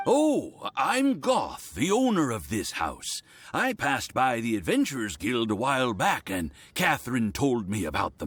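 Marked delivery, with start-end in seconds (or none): 0.1-3.2 cheery greeting. Acted. Homeowner greets Mona eagerly, cheery hello. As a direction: bounce in with a bright greeting.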